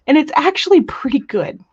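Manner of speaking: unvoiced, impressed aside; whisper. Real, not acted. Crafter whispering praise of a friend's clay cane. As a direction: hush it like a secret compliment.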